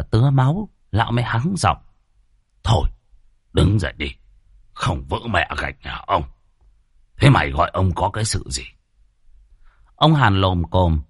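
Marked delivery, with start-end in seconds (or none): 2.6-8.6 lightly lowered voice of a bossy landlord; a hint of a scornful old chief; gruff old village chief. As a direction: snap at the servant like a petty tyrant.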